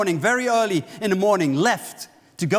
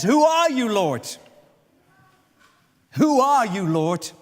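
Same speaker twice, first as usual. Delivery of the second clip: awed cry; 3 semitones higher, slower than usual. Acted. Blinded Saul calls out.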